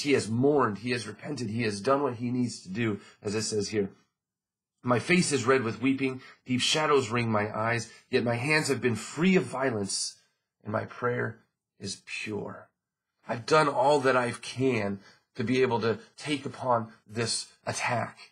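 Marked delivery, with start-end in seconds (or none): 4.8-12.7 scripture reading. Acted. Pastor reading Job aloud to the congregation, ringing. Reads verse.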